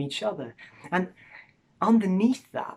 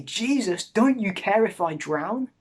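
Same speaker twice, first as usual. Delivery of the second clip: louder, higher desperate cry to Jesus; panicked plea; 5 semitones higher, 4 dB louder than usual. Pretend. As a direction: call out in mock panic from the storm. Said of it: "You can come to him panicked and angry and confused".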